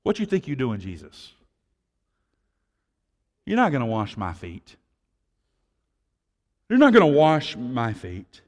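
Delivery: casual, blunt Peter voice; loose paraphrase of Peter. Retold or imitated. Preacher voicing Peter refusing Jesus, casual and blunt. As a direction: Peter brushing off Jesus in plain talk. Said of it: "Brother Rob's loose translation".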